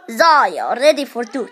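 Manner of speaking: amateur low hero imitation; Zarya impression. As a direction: imitate a soldier reporting in. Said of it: "Zarya impression".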